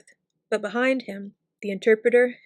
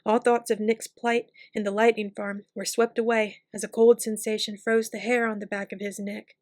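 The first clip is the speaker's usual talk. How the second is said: plain reading voice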